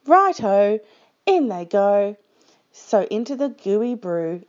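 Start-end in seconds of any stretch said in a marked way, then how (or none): 0.1-2.2 bright, eager Dingo agreeing. Acted. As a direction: toss it off with cheery eagerness.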